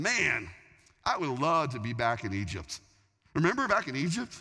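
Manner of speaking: hammed-up wistful grumbling with stretched words; mock complaining. Israelites longing to be back in Egypt, mock complaining. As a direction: pine theatrically for the old days. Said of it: "they're complaining".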